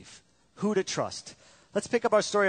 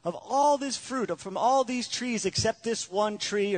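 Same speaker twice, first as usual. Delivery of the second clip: voice of God; 5 semitones higher, slower than usual. Retold or imitated. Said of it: "God said".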